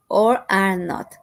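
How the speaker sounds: "are not" said as two clear words; full form, careful. Shown as a demonstration. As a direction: stretch out "are not" deliberately. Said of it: "or the complete".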